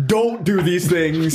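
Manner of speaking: emphatic admonition. Acted. Co-host voicing Fight Club's message to its fans, emphatic admonition. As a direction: spell it out like a stern message. Voices the film's message as scolding.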